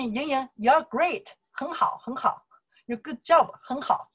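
lightly acted high-pitched compliment; imitated praise. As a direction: act out someone handing out praise. Quoting someone praising her.

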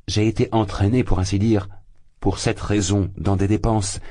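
rising agitation, losing his grip; heated, frantic. A narrator's reading. Spurned suitor argues frantically with the mother. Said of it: "s'échauffait Lougine, frénétique".

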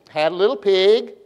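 sing-song poem line rising on "pig"; rising inflection. Shown as a demonstration. Preacher teaching children a little poem, rising inflection. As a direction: voice lifts at the end on "pig". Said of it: "my voice goes up, y'all go up".

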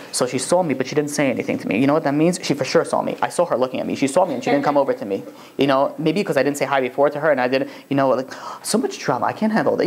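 low fretful muttering to oneself, lightly acted; mock inner monologue, pitched low; overanalyzing self-talk. Snubbed person replaying a non-greeting, lightly acted low fretting. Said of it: "they're talking to themselves, they're overanalyzing it".

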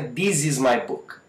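"this" said as "dis" in "this is my book"; hard D opening "this is my book"; learner's wrong "this", with D for TH; mispronounced D. Shown as a demonstration. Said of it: "Não é".

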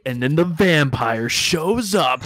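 mock GM voice. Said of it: "Ronald's gonna be like".

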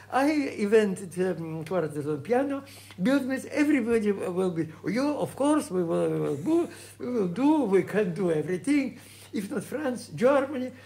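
mock-recalled boyish excitement, voice climbing; naive enthusiasm. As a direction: sell the invention as if anything were possible. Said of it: "we were naive".

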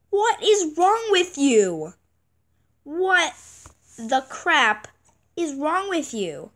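slow, drawn-out exasperated what is wrong with you; ticked off. Real, not acted. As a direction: let the frustration stretch the words. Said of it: "I am actually ticked off".

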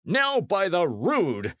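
slow, high-pitched oath; exasperated cry. A narrator's reading. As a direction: swear in frustration, drawn out. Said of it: "cried Sir Daniel".

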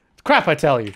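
a hint of a grumpy old-timer's put-on voice; mock grumble. To her viewers about her sleep schedule, a lightly put-on grumpy old-timer. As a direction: lightly ham up the complaint like a cranky old man.

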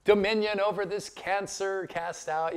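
prayer rally praying. Retold or imitated. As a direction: imitate earnest church folk proclaiming in prayer. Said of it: "everybody's praying".

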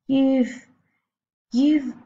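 high, loud, stammering shock; shrieked. A narrator's reading. Mother accusing her husband, shrieked. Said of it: "shrieked the mother".

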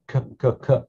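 k, k, k as crisp hard K sounds; hard k demo. Shown as a demonstration. Teacher showing learners the hard K. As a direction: tap out a hard K three times. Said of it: "hard K".

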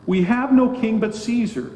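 crowd's brazen cry, stressing "no"; blatant declaration. Retold or imitated. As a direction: throw it out as a defiant claim, leaning on "no". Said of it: "by saying blatantly".

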